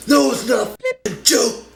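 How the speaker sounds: loud, high yelling mugger; robber. Retold or imitated. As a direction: bark it like a panicked mugger. Robber yells back.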